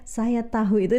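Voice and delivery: "tahu" with a fully sounded h; over-correct "tahu" into a formal ta-hu; too-formal pronunciation. Shown as a demonstration. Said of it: "it's too formal".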